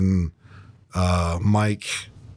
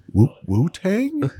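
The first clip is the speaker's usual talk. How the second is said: confused; 10 semitones higher, much slower than usual. Retold or imitated. Clueless shop owner retold.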